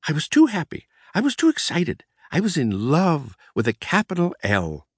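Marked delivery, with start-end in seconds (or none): 0.1-2.0 giddy joy. A narrator's reading. Narrator bursting with joy.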